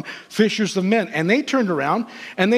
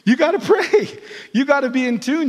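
urgent exhortation; 6 semitones higher than usual. Real, not acted. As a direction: press it home to the congregation. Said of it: "repeated, rising intensity".

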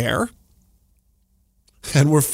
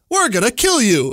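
creepy alien voice; 9 semitones higher, 3 dB louder than usual. Retold or imitated. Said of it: "it says in its creepy alien voice".

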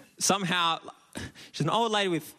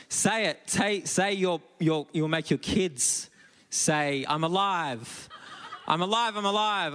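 insistent demand; 4 semitones higher than usual. Retold or imitated. Lady yanks him, insists.

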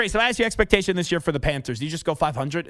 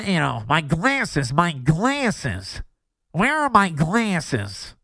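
put-on old man voice; 3 semitones lower, much slower than usual. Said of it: "I sound like I'm ninety-five years old".

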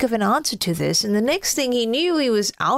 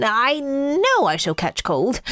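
slow, gloomy snowman worry; 2 semitones higher than usual. Acted. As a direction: fret slowly as the snowman. Snowman frets after sneezing.

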